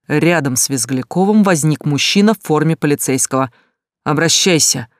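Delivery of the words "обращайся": angry growl. Acted. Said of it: "гневно прорычал Стас".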